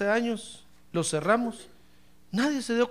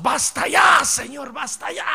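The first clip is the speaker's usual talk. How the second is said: mock fed-up plea; 5 semitones higher, 4 dB louder than usual. Imita creyentes hartos.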